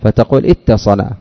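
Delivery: اتصل with a doubled tt; assimilated form. Shown as a demonstration. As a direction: show the merged tt in اتصل. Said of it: "تدغم التاء في التاء".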